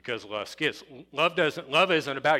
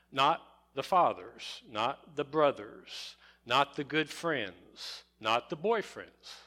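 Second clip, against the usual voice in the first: ordinary talk, nothing marked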